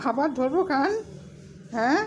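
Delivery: laughing tease. Real, not acted. Laughs while teasing the pet.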